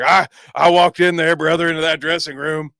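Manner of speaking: gravel-free wrestling promo voice, lightly done; lightly voiced eighties wrestler promo; Hulk Hogan voice. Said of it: "use my Hulk Hogan voice".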